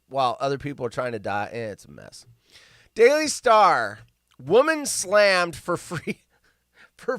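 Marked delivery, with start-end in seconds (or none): none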